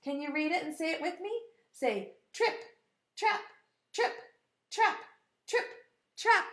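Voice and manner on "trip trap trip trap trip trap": short, evenly spaced beats; hoofbeat imitation. Shown as a demonstration. Teacher leading children in hoof sounds, rhythmic imitation. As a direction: leave a gap after each hoof step. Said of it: "that's the sound that his hoofs made".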